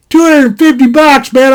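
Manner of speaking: mock-astonished haggler's echo; incredulous balking. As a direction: balk at a steep price. Balking at a seller's price.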